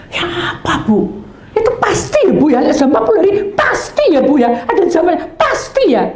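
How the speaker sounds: eager visitor. Retold or imitated. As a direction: play the pushy visitor begging for an answer. Visitor pleading, voiced by pastor.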